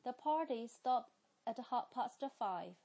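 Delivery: 英式发音，读快一点. Shown as a demonstration. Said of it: "我来读快一点哈".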